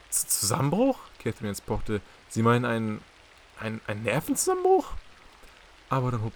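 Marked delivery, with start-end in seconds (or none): 0.1-4.9 alarmed. Acted. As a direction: stumble over the words in fright. Catherine hears brother broke down. (erschrocken, stockend und lauter)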